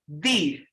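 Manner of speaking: "the" with the tongue out for the TH. Shown as a demonstration. Trainer teaches class the sound, "the" with tongue-out TH. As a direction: put the tongue out and say "the". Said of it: "I want you to say".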